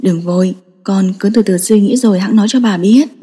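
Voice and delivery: bà kiên nhẫn, giọng trầm và nhẹ; patient grandmother. Acted. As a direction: reassure him, take your time. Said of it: "kiên nhẫn".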